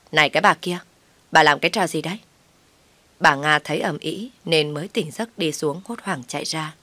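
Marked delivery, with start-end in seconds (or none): 0.1-2.2 shouted rebuke; sister-in-law yelling at the wife; shouting. Acted. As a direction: yell at her to stop. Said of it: "chạy ra quát tôi".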